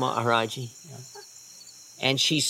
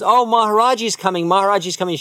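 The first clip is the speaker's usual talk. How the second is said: put-on high, loud excited little girl; excited child; 5 semitones higher, 4 dB louder than usual. Little girl at the window announcing the guru, high and excited. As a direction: call out in delight.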